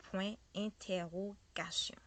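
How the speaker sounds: "point interrogation" slowly, broken into syllables; French pronunciation demo. Shown as a demonstration. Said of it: "This one we say".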